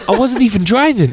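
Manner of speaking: high, loud put-upon squeal; mock indignant whine; whiny protest. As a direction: protest like a wronged victim. Retold meme passenger protesting.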